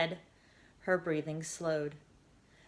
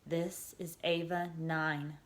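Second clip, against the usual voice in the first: whispered; 7 dB quieter, much slower than usual. A narrator's reading. Girl whispering into her Omnipod, hushed and slow. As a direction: hush it into the communicator. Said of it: "she whispered into the Omnipod".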